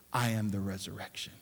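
I am the resurrection, said low, soft and quick, tossed off; throwaway line. Shown as a demonstration. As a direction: rush it past as if it hardly counts. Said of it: "He didn't just say ... He said this".

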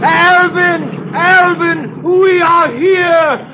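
shouting to a friend on another boat; calling out. Acted. Calling out to Alvin on yacht.

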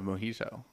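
"mojito" with the "hi" over-enunciated; over-enunciated syllable. Real, not acted. Answering that they'd stay and have a drink, over-enunciated "mojito". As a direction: lean on the middle syllable of "mojito". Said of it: "You really enunciated the he".

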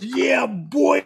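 high, stretched-out promo catchphrase; Scotty's promo voice. Retold or imitated. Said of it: "does this really good promo and goes".

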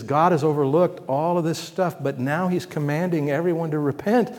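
Paul preaching to the Athenians, loud and rising. Retold or imitated. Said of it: "and he says".

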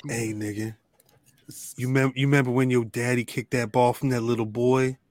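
lightly voiced old guard; old prison guard voice. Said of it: "It's gonna be ... old ass C O".

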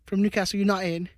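muddled, badly faked Newcastle accent; botched accent. Podcast host naming a player's club, muddled fake accent. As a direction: attempt a Newcastle accent and miss. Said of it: "What accent is that".

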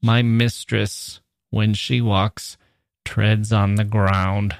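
very slow, halting after "mistress" and "walks"; lurching. Shown as a demonstration. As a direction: lurch heavily from phrase to phrase, dragging each word. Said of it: "as we lurch along with the beloved".

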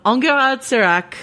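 amateur French pronunciation of the name; terrible French accent. Pretend. Host naming the Vincent Cassel character, terrible French accent. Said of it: "my terrible French accent".

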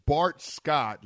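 scornful name-drop; disdainful. Real, not acted. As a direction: say the name with contempt. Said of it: "You said Bart Scott with such disdain".

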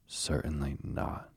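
"Certainly not" slow and deliberate; emphatic. A narrator's reading. Toad refuses to promise the badger, emphatic on "Certainly not". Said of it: "replied Toad emphatically".

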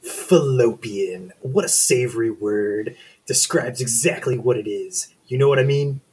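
lightly voiced lusty monster; hormone monster voice. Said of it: "I can do a better hormone monster voice".

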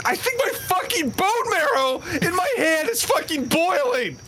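pained, strained and high; burnt fingertips. Acted. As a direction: talk through searing hand pain. Hand burning in pain.

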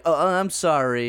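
slow, hesitant imitation of apologizing; mock sheepish apology. Co-host teases friend about apologizing on the call, sheepish. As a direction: drag out a halting, sheepish sorry. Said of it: "did you go like".

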